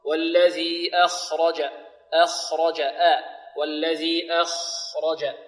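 slow "أخرج" opening on a thin, light "a"; measured recitation, light "أ" before heavy KHA; correct light hamza. Shown as a demonstration. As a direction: keep the first sound of "أخرج" thin. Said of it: "مرققة هنا".

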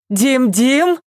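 high call across the yard. A narrator's reading. Mother calling her husband to fetch the child. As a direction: call someone from afar. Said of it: "крикнула она".

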